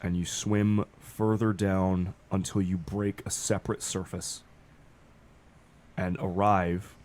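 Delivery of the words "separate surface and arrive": slow, hushed game master description; scene narration. Acted. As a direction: paint the eerie place slowly.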